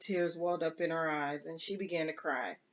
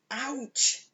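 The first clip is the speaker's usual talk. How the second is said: yelp; 7 semitones higher than usual. Acted. Tests hot water.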